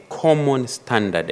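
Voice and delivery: weight on "common standard" as key words; stress on COMMON STANDARD. Real, not acted. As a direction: read "common standard" with deliberate emphasis. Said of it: "emphasis on common standard".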